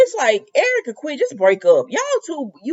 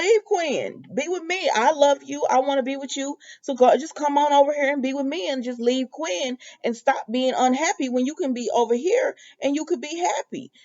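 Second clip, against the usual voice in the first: higher, pleading mistress; Donna pleading; 5 semitones higher than usual. Retold or imitated. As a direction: coax him lightly, voice raised. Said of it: "And she says".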